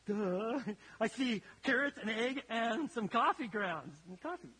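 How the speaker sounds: put-on a teen saying duh, it's obvious; sarcastic duh. Daughter answering her chef father, mock sarcastic. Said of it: "And she's like".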